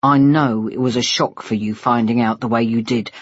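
a hint of tired fatherly apology; weary father. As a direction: concede it tiredly, dropping the pitch.

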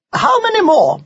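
put-on young boy voice. Ned asks grandmother.

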